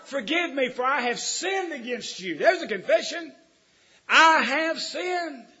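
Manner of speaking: loud, slow, high preacher's cry; booming sermon delivery; full-force preaching. Acted. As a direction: preach it out to the pews.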